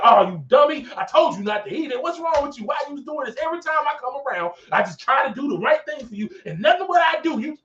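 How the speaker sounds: high, exasperated telling-off; mock scolding. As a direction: scold like a fed-up parent, in mimicry. Mimics God scolding Adam, denies it.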